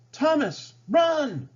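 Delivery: high, loud urgent yell; crying out. A narrator's reading. Smith yelling at Thomas to run. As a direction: warn him to flee now. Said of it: "Smith cried".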